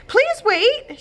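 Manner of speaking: high, loud call after them. A narrator's reading. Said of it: "she called out".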